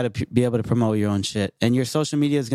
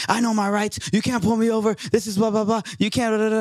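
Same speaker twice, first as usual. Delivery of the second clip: high indignant driver; squeaky protesting driver; high mock driver voice; 8 semitones higher, faster than usual. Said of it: "he's like".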